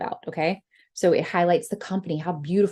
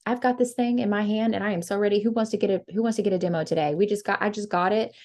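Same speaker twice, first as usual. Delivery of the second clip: casual chill pitch. Shown as a demonstration. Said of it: "just be so casual and chill".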